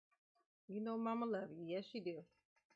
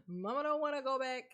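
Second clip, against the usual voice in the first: mock whine; 3 semitones higher, 4 dB louder than usual. Klaagt over weer werken.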